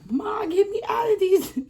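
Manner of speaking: very high, loud retold whine; high-pitched reenacted begging; mock desperate plea. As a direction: wail for your mother to free you. Begging mother while handcuffed, reenacted.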